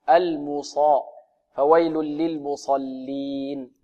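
"المصا" rounded 'mu' then open heavy 'saa'; open Sad. Shown as a demonstration. Teacher modelling the fix, slow open-Sad recitation. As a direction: recite "فويل للمصلين" slowly, opening the Sad. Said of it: "لكن الصاد مفتوحة".

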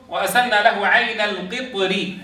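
slow recitation with a thin R in "القطر"; "القطر" read with its ر light, coloured by an i vowel; light Raa. Shown as a demonstration. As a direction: recite slowly, softening the ر of "القطر". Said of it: "والقطر فيها الترقيق قولا واحدا".

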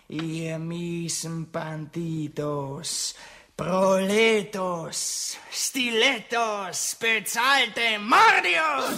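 drawn-out, relishing each insult slowly, ending in a shout; slow mock insults. Prince taunting the bandits, slow scornful build to a shout. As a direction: savour every slur.

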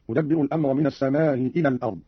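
short aa in "السماء", hamza softened before "إلى"; "السماء" unstretched, gliding into "إلى"; eased hamza with qasr. Shown as a demonstration. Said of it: "مع المد والقصر هكذا".

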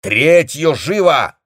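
high, loud, slow command; barked order. A narrator's reading. Captain turns and shouts at the telephonists. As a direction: snap the order at the operators. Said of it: "крикнул".

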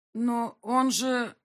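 high, loud and slow start of an objection; cut-off protest. Acted. Sokolov starts to object to his partner, high and loud. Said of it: "хотел возразить Соколов".

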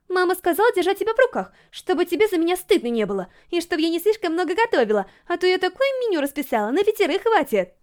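put-on eager girl gushing about the zoo trip; Yurika's voice. A narrator's reading. Yurika reporting mom.

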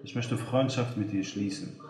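lightly seductive woman's voice; a hint of a flirty caller, softening; breathy purring seductress. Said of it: "mit verführerischer Stimme". (leicht verführerische Frauenstimme)

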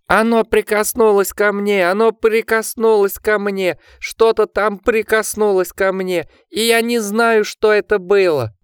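very high, drawn-out squeal; panicked shriek. A narrator's reading. Richard confesses his terror to Jack, shrieking. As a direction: keep squealing in rising desperation. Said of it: "пронзительно взвизгнул он".

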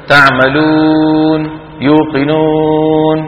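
long held "oo" in تعملون and يوقنون, lips fully rounded; rounded long waw. Shown as a demonstration. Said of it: "انظروا إلى فمي". (واو ممدودة بضم الشفتين في تعملون ويوقنون)

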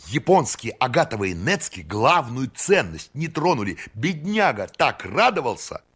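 put-on high, eager voice of an eccentric old count; excited eccentric count. A narrator's reading. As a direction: bubble over with eager excitement. Eccentric count tells the story.

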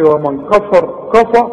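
«ومن كفر» بكاف غليظة; فخم الكاف والفاء في «كفى» كنموذج للخطأ; تفخيم خاطئ. Retold or imitated. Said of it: "لا، هتقول". («كفى» بفتحات مفخمة)

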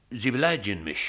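loudly offended protest; indignant. Acted. Reporter to his chief, indignant and loud. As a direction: bristle at the accusation. Reporter accused of taking bribes.

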